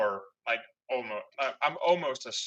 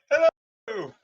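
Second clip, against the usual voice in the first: high, loud mock "hello" call; cheery oblivious greeting; 9 semitones higher, 9 dB louder than usual. Player imitating Leon walking out, high loud greeting. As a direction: call it out like someone strolling into trouble.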